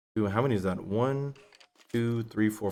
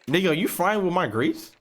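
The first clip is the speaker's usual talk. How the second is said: incredulous quote; 6 semitones higher than usual. Retold or imitated. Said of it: "I'm like".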